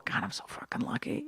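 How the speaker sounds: hushed, breathy thankfulness under the breath; whispered gratitude. Retold or imitated. Comic describing a morning thought, whispered gratitude.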